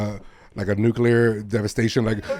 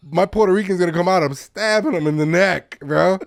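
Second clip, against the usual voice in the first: mock tough guy; 6 semitones higher than usual. Picturing fight with kangaroo.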